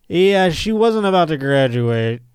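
lightly voiced school official, slow; school's voice. Podcaster imagining the school's response, slow mock-official voice. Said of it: "school would have been like".

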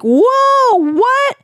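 high, loud mock astonishment; hammed-up stunned reaction, drawn high; astonished knights. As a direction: play a crowd of stunned knights.

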